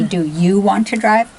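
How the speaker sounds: loud, biting do you want to drive; cutting challenge. Shown as a demonstration. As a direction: snap it at her.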